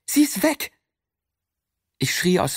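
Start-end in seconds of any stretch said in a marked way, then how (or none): 0.1-0.7 screaming. Acted. Boy screams at Mike after the shot, furious. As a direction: scream it at him. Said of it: "schrie ich".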